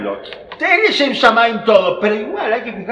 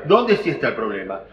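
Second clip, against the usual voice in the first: ¿Dónde sí está el problema? dropped much lower, stress still on Dónde; low repeat; 8 semitones lower than usual. Shown as a demonstration. Teacher echoing his own question low: ¿Dónde sí está el problema?.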